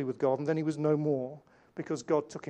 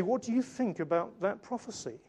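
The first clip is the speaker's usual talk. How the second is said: higher-pitched, probing imagined question; mock doubtful questioning; 4 semitones higher than usual. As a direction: put it to him as a puzzled questioner. Imagined questioner chatting with Enoch.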